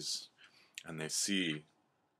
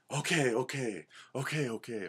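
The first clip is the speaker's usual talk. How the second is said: eager agreement; 6 semitones higher than usual. Acted. Animals eagerly accept cougar's plan.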